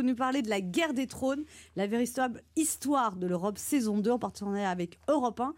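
syllables swallowed and slurred; mumbled words. Acted. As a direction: chew through the words quickly. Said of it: "T'as, t'as mâché quand même beaucoup de mots là".

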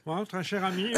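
a hint of nasal posh voice; plummy nasal voice. Shown as a demonstration. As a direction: say it through the nose like a snob. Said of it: "il parle du nez".

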